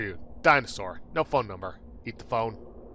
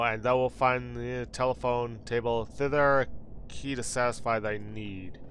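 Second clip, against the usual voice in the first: slow, lightly voiced old-fashioned instruction; mild antique formality; archaic formal speech; 2 semitones lower than usual. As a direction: advise like a quaint innkeeper. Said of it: "talking like this".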